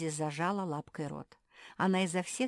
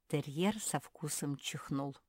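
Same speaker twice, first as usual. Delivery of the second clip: ordinary delivery, nothing marked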